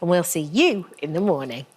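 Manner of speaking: lively scripted channel promo; upbeat TV presenter outro; presenter sign-off. Acted. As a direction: sign off to online viewers with bouncy emphasis.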